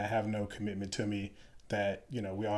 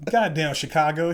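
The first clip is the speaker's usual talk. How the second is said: louder, higher exclamation; mock exasperated sergeant; 6 semitones higher, 8 dB louder than usual. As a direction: bark out his nickname in disbelief. Sergeant mocking new lieutenant.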